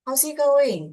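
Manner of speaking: high, loud hollered greeting; acted yell. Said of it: "He yells".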